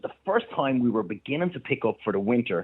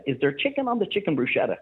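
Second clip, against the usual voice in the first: naive customer question; 7 semitones higher than usual. Retold or imitated. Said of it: "she goes".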